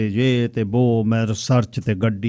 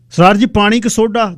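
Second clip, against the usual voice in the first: waiter; 9 semitones higher, 6 dB louder than usual. Acted. Waiter asks host at party.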